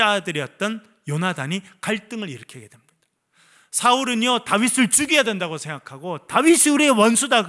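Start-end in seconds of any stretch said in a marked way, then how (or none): 6.3-7.5 Saul's raised, louder declaration; angry king. Acted. King Saul declaring David his enemy, raised and angry. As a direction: proclaim the enemy with heat. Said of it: "그렇게 말합니다".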